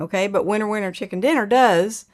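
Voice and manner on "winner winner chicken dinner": Oklahoma twang, fast and bright; Okie twang. Shown as a demonstration. Showing the Okie twang to a viewer. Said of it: "Doesn't sound right with an Okie twang".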